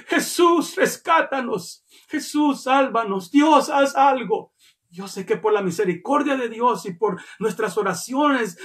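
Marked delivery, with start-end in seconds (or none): 0.1-4.5 high-pitched imitated plea; mock desperate calls for rescue, not full volume; retold crying out.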